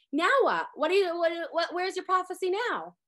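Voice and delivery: mock-angry demand, punched at the start; sharp retold reproach; retold angry challenge. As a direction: confront her as the let-down parent. Parents slap her and challenge her.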